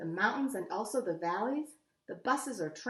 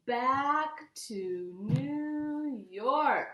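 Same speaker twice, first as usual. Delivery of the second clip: drawn-out call; 3 semitones higher, much slower than usual. Real, not acted. Reader announcing the trip to kids, drawn-out call. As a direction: call out the destination, long and grand.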